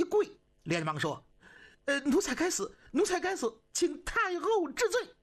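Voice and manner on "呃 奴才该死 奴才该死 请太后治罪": high, anxious servant's plea; frightened pleading. Acted. Kneeling servant begs the empress dowager for forgiveness, frightened. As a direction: beg for mercy, trembling.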